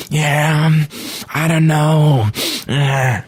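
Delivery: put-on high, slightly childish drawn-out voice; Adam Sandler. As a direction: stretch it high like a childish oddball. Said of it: "sounds like a slightly childish Nicolas Cage".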